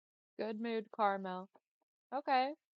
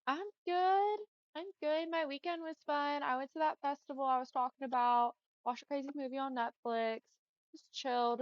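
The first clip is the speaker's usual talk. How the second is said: upbeat; 5 semitones higher than usual. Real, not acted. Answering viewer cheerfully.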